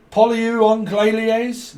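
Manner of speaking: loud, high, drawn-out mock French; botched French accent. Fumbling a singer's name, botched French accent. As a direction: mangle the name in bad French. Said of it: "fucks up the French accent".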